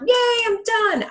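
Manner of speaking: mock a smug quitter, drawn out; mock celebration. Mocking a finished attitude.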